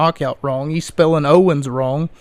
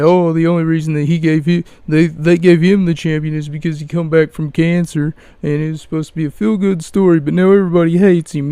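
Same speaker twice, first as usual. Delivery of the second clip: fast mocking; faster than usual. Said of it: "you can go on and say".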